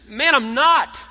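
loud, high snapped denial; sharp denial. Acted. Peter loudly denying to a bystander he knows Jesus. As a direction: shove the accusation away.

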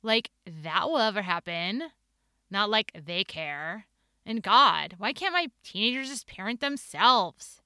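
a hint of a snarky Valley Girl; lightly voiced sarcastic Valley Girl. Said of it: "her snarky Valley Girl voice".

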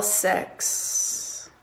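breathy whispered count. Shown as a demonstration. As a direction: whisper the number.

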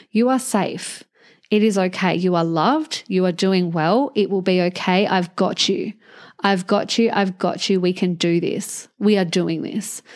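put-on gentle, soothing self-talk, like comforting a hurt child; calm and tender, holding a little one close; reassuring to a child. Shown as a demonstration. Coach soothing her inner child: gentle reassurance. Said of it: "as if you are speaking to a little child".

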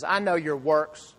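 slow, stern "I know your works" with a rising edge; harsh judge's "I know your works"; stern accusing tone. Shown as a demonstration. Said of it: "he wouldn't use that tone".

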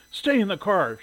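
high, loud command; stern order. A narrator's reading. Shirley ordering her daughter on arrival, sternly. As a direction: order it firmly. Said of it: "she ordered her daughter".

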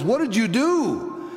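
high, drawn-out astonished question; acted nurse demanding an answer, pitch soaring; retold demanding nurse. Nurse confronts teacher in the hall, high and insistent. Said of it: "The nurse comes up to her in the hall and says".

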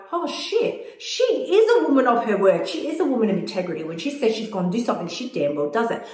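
a hint of the brain's amazed realization, laughing; surprised brain. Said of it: "your brain can actually latch onto and go".

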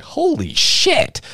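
high, slow, stretched-out shock; mock gasp of disbelief; stunned exclamation. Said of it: "And she's like".

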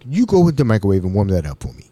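low, brisk order in imitated African accent; lightly voiced commanding African man. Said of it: "Mbutu was an African".

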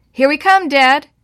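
loud, high answering call. Acted. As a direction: shout down to Dad nervously. Boys answering father from hay mow.

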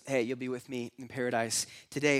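a hint of tender promise; gentle reassurance. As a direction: reassure the dying man gently. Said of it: "Jesus goes".

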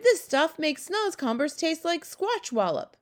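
high, slow, emphatic exclamation; crying out. A narrator's reading. Giant judging his breakfast, crying out. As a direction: draw the words out in a high cry. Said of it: "he cried".

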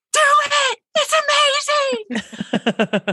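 high, stretched-out thrilled cry; excited heart. Retold or imitated. Her heart urges her to try holding, thrilled and high. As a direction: let your heart cheer it on. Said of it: "but my heart's like".

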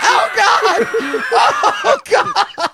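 high, loud hysterical wail; horrified mother. Acted. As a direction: cry out as a mother seeing her hurt child. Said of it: "And his mother's like".

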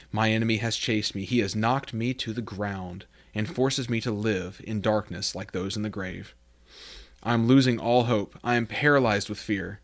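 earnest Bible reading from the pulpit; scripture reading. Acted. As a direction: read the prayer aloud with reverence. Reads New Living Translation.

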